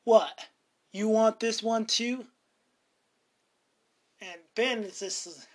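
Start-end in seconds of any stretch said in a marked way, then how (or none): 0.0-2.3 sneering retort. Retold or imitated. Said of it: "Cooper looks at Ben and says".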